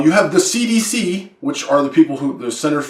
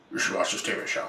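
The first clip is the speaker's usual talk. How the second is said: hushed whisper; 13 dB quieter, faster than usual. Acted. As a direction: whisper it close to the mic. Whispered aside.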